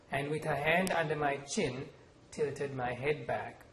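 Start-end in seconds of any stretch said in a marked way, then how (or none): none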